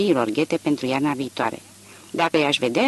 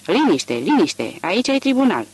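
strigăt de aprod, lent, care urcă mult pe final; strigând liniște; 4 semitones higher than usual. Acted. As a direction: cere liniște strigând în sală. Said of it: "portărelul începu să strige". (aprodul strigă sala la liniște)

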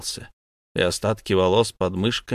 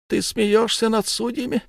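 incredulous elder; 13 semitones higher than usual. Acted. Elder questions Ulenspiegel.

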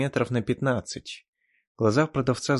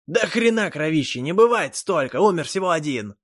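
loud, higher indignant shout; heated protest; 6 semitones higher, 6 dB louder than usual. Acted. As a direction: argue it hotly. Elf argues angrily.

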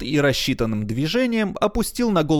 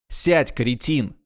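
slow, lightly stern command; a hint of a curt boss; mild order; slower than usual. Herrera orders Paxton to sit, mildly stern. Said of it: "приказал Геррера".

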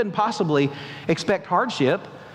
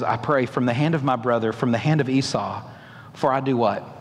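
frightened prayer; 8 semitones lower than usual. Acted. Jacob's frightened prayer continues.

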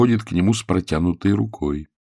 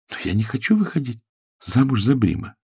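put-on softer girl's voice, pitched up, pouting; a daughter refusing the match; daughter objecting; 4 semitones higher, 3 dB quieter than usual. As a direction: daughter refusing to marry Brim.

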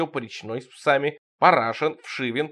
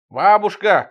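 calling out; 6 semitones higher, 9 dB louder, slower than usual. Acted. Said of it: "кричу".

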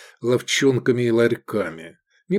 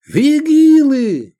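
much higher, very loud, slow warning; alarm shout; 9 dB louder, much slower than usual. Acted. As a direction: yell the alarm. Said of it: "крикнул Цицилий".

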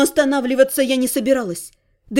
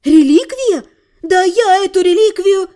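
louder, raised indignant retort; indignant outburst; 4 semitones higher, 4 dB louder than usual. A narrator's reading. Heroine hears she carries their relic, indignant outburst. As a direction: fling it back in outrage.

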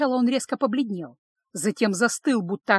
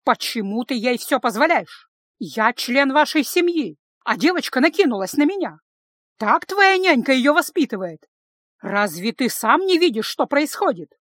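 angry tirade; 3 semitones higher, 5 dB louder than usual. Acted. Lisa accusing her brother and the nanny, angry and loud. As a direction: hurl the accusations at him. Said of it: "гневно глядя на брата".

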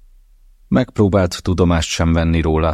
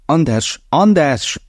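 much higher and louder, calling after him; 12 semitones higher, 4 dB louder, slower than usual. Acted. Mother calls her son as he hangs up, raised call. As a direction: shout his name as he hangs up.

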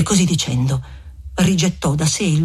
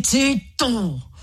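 cutting interruption; 7 semitones higher than usual. A narrator's reading. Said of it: "interruppe il frate".

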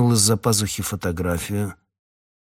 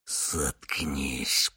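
much softer hissed shut up; 6 semitones lower, 9 dB quieter than usual. Acted. Hunter hisses at his wife. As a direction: hiss it through the teeth. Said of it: "прошипел охотник".

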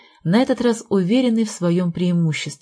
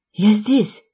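calling out; 3 semitones higher, 3 dB louder than usual. Acted. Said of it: "позвала Авротина Марина".

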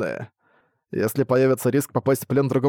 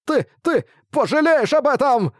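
very high, slow, stammering squeak; little bat sniveling a threat; tearful bat threat; 12 semitones higher, 3 dB louder, slower than usual. A narrator's reading. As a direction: threaten while near tears. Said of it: "забормотала дрожащим голосом, полным слёз".

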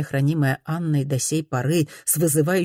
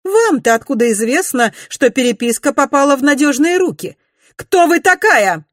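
high, loud, climbing to a near shout; furious lady; rising fury; 11 semitones higher, 8 dB louder than usual. A narrator's reading. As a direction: demand who she is. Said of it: "Буйный нрав".

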